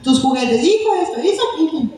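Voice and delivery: imitando a un padre que regaña, agudo; regaño de padre. Retold or imitated. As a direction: remeda el regaño, rápido al final. (padre regañando al hijo con fastidio)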